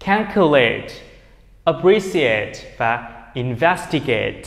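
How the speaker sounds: Calculate, appreciate, investigate each ending in full "eight"; long AY in the last syllable of Calculate, appreciate, investigate; verb "-ate" as "eight". Shown as a demonstration. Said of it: "nên thầy đọc thành chữ eight". (đọc Calculate, appreciate, investigate với đuôi "ây-t")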